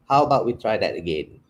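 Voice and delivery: American English way. Shown as a demonstration. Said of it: "See the difference there?".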